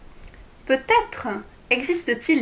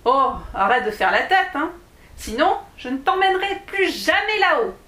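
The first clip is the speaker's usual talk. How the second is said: annoyed dwarf; 5 semitones higher than usual. Acted. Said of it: "que ce comportement commençait à agacer".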